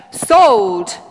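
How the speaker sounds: high, loud cry of Sold; auctioneer shout. Acted. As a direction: bang it out like an auctioneer. Auctioneer calls out sale.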